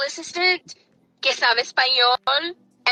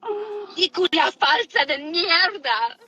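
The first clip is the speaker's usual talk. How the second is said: slow, higher-pitched mock insult; mocking echo; 4 semitones higher, slower than usual. Woman throws the insult back at her rival, mocking echo. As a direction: drag out the insult in mockery. Echoes an insult, then laughs.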